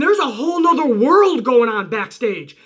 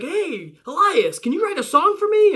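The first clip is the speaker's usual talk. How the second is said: mock sweet request; 7 semitones higher than usual. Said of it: "Dana Brooke's like".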